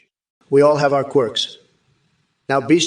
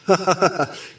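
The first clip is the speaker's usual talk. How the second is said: short rising laugh that drops off; hearty laugh; 3 semitones higher than usual. Pretend. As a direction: laugh to show what a real laugh sounds like. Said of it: "Now, that's a real laugh".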